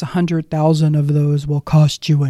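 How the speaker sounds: imitating Dennis. Dennis's teasing repeat to caller.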